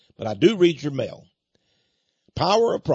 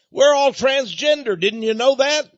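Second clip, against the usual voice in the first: higher, laughing sarcastic jab; sarcastic mockery; 11 semitones higher, 3 dB louder than usual. Radio host mocks the banning of the word mankind, sarcastic laugh. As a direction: scoff at it with a laugh. Mocking modern speech rules.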